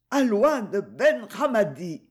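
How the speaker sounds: «Alouane Ben Ramadi» arraché lentement, plus aigu, voix altérée; le dernier souffle qui libère le nom; mot de mourante. A narrator's reading. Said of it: "pour libérer le mot qui s'échappa". (la mourante livre le nom au capitaine, lentement, dans un dernier effort)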